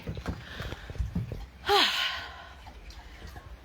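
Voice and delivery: long, breathy exhale; heavy sigh. Real, not acted. Alone after setting things down, a long heavy sigh. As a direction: let out a big drawn-out sigh.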